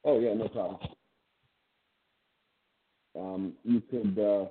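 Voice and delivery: distant off-mic voice; speaking away from the phone; phone held away. Real, not acted. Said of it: "still don't hear you that well".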